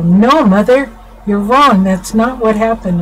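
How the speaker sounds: lightly voiced daughter snapping back; retold daughter. Daughter correcting her mother, a mild mock protest. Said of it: "She'd go".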